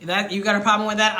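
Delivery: sharp, fast challenge; loud sharp voice. Real, not acted. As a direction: snap it back at the viewer. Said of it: "I'm a yeller".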